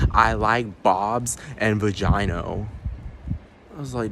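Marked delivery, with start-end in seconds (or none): 0.1-2.7 slow mocking quote. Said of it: "He just said".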